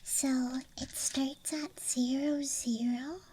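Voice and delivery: ASMR whisper. Real, not acted. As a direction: whisper close to the mic. ASMR dice show-and-tell.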